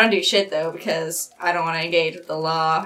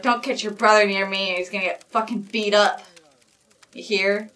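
mild heated rant; 4 semitones higher, faster than usual. Acted. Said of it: "just mumbles and be like".

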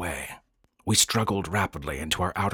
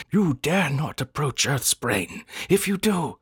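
excited; 9 semitones higher than usual. A narrator's reading. Noscat warning against approaching Earth's brain, very excited. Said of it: "Noscat said excitedly".

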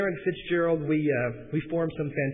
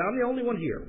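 put-on southern accent; 8 semitones higher than usual. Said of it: "not gonna do the accent".

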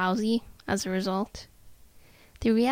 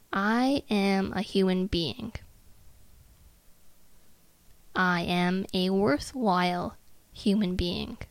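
measured, word by word, with pauses; unhurried self-affirmation, evenly spaced; slow, deliberate affirmation. Shown as a demonstration. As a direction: recite it slowly to let it sink in. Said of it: "say that sentence slowly to yourself".

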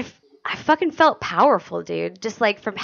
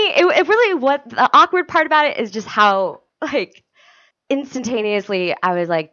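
ordinary delivery

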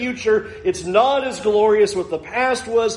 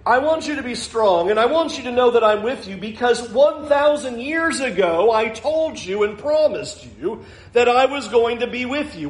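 lightly raised, earnest voice of God promising; voicing God; 4 semitones higher than usual. Pastor voices God to discouraged people, lightly raised. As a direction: speak as God reassuring his people. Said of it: "Here's God going".

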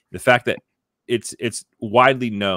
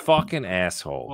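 Boston accent demo. Shown as a demonstration. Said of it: "That's not how you say it".

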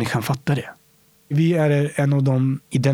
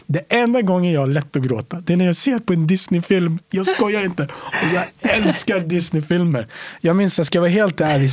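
excited gush; 5 semitones higher than usual. Real, not acted. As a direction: gush about the films you love. Excited about Disney films. (entusiastiskt om Disneyfilmer)

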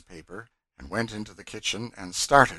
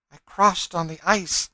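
high, loud, earnest statement; fugitive woman; 10 semitones higher, 10 dB louder than usual. A narrator's reading. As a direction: declare it in a raised, woman's pitch. Fugitive woman answers her questioners.

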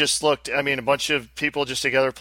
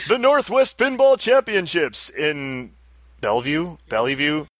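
announcer voice. Shown as a demonstration. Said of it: "announcer voice".

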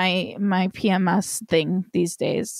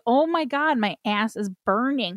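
playful re-enacted wail; retold distressed exclamation; 3 semitones higher than usual. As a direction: recount your own dismay, pitch jumping up on the first words. Retelling own bathroom suffering.

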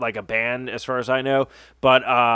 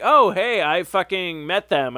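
retold excited interjection; 5 semitones higher, slower than usual. Co-host quoting a friend who met the band, excited interjection. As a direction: imitate a friend's higher-pitched "oh hey". Retold casual reply on the show.

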